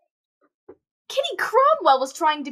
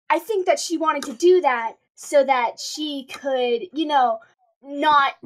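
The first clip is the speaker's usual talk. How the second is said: slow, nervous stammering; halting, apologetic and nervous; stuttering; slower than usual. Acted. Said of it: "sorry, I'm stuttering so much".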